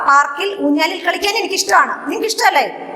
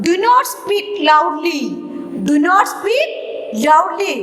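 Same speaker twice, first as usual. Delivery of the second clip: slow dictation; slower than usual. Shown as a demonstration. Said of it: "reading sentence to class".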